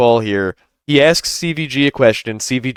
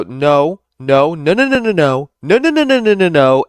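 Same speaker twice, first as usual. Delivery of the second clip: mock interrupting; 4 semitones higher than usual. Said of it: "he'll go".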